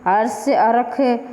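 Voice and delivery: slow हर्ष then हरख with a kh for the ष; हर्ष and its Awadhi form हरख, the ष turned into kh; Avadhi sound change. Shown as a demonstration. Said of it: "संघर्ष है, उसमें स का ख".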